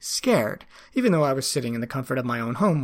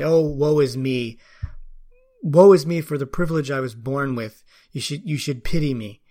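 mock self-pity; 3 dB louder than usual. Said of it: "where I'm trying to say".

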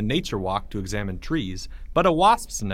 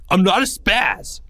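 louder, higher yell; 9 semitones higher, 5 dB louder than usual. A narrator's reading. Greg yelling his denial at Porge, loud. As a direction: shout the denial. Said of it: "yelled Greg".

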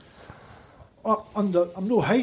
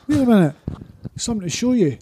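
lightly imitated accent without the Scottish, pitched up; Kelly Slater, non-Scottish accent; 5 semitones higher, faster than usual. Surfer calls a fan back with something to show, non-Scottish accent. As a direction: drop the Scottish accent, higher quoted voice. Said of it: "He didn't say it with that Scottish accent".

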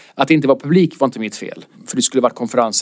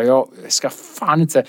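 through gritted teeth; much slower than usual. Retold or imitated. Comic to the grumpy woman, slow and seething through teeth. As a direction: hold the anger in behind clenched teeth. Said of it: "så jag bet tänderna".

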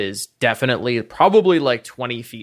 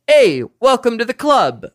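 Jasper voice; 7 semitones higher, 4 dB louder than usual. Acted. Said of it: "And Jasper kinda looks at you and goes".

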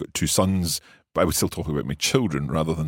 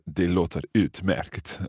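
slow demo; slower than usual. Shown as a demonstration. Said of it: "we'll stick with".

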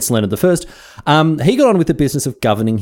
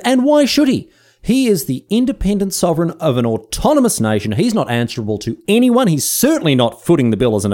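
mock indignation; 2 semitones higher than usual. Mock defence of Casley's refusal.

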